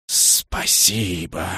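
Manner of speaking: low, slow, hushed rustle; rustling thanks. A narrator's reading. Rain-dragon rustling its thanks, low and slow. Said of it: "прошелестел дождь".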